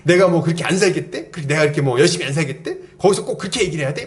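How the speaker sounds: quick, mildly mock-indignant retorts; retold angry griping. Young woman venting to roommates after being rebuked, mock-angry. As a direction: imitate a hurt, defensive complaint picking up speed. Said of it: "막 화가 난 거예요".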